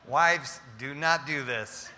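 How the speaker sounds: chuckling through the words; laughing. Real, not acted. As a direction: laugh while warning wives. Preacher laughing at own joke.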